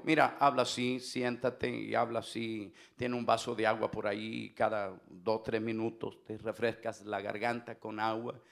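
mock the calm therapist in a hushed voice; quietly quoting the therapist telling him to sit and speak softly; therapist's soft advice. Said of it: "Porque ella me dijo".

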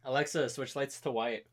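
soft, slow, evenly spoken command; quiet voice command. Real, not acted. Commanding a voice assistant aside.

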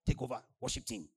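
high, loud call to join; calling him up to lead worship; mock excited call. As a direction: pastor hailing the newcomer, loud and bright. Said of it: "Pastor Emma say".

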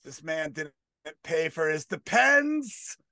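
mock public shaming yell; imitated yelling. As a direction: call him out publicly, stretching the last word. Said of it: "He's yelling out loud".

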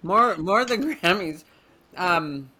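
talking while eating; words round a bite of food; mouth full. Real, not acted. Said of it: "You're eating".

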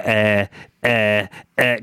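drawn-out hesitant eh sounds; distracted stalling noises. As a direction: stall like you lost your thought. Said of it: "I'll get halfway through and go".

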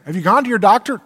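a mock shout of the question; calling out. Acted exchange about knee.

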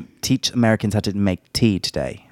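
attempted Irish accent; Saoirse Ronan. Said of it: "So it's Saoirse Ronan".

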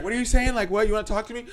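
high-pitched, loud, eager questioning; imitated happy eagerness. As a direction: play the oblivious man thrilled by attention. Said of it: "he's, like, so happy".

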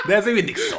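high, loud laughing put-down; hammed-up damning judgement, pitched high; mock verdict. Panelist mocks a friend's song, laughing outburst.

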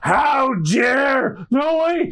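high startled crew yells; shocked shouts. Acted. Pirate crew shouting in shock at the insult to Alvida. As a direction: cry out in outrage.

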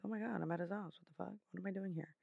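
breathy shocked inner whisper; whispered panic. Retold or imitated. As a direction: hiss it to yourself in disbelief.

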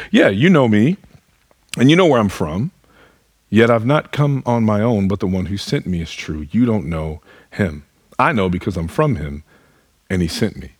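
mockingly throwing their own words back; a dry, sarcastic echo of the crowd; sarcastic mimicry. Preacher voicing Jesus mocking the temple crowd, sarcastic. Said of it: "he kind of sarcastically mimics the words that they say".

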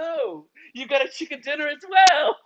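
high, earnest Scandinavian lilt, now stronger; sweetly sincere Nordic woman; Scandinavian accent. Retold or imitated. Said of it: "She goes".

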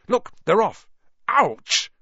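high, loud excited cry; excited yelp. Acted. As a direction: shout it, then yelp. Ron excited, then poked.

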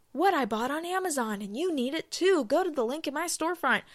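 influencer voice. Retold or imitated. Mocking influencer pitch.

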